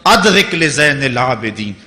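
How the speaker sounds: slow, drawn-out Arabic invocation; measured preacher's rendering of a supplication; recited plea. Retold or imitated. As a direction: recite a retold plea slowly, stretching each phrase. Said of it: "مدینے کی طرف منہ کر کے کہہ رہے ہیں".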